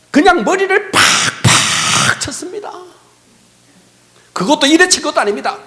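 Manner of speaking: high, loud, impassioned preaching; preaching at full force. Acted. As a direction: preach it with rising fervor. (높고 힘찬 설교조)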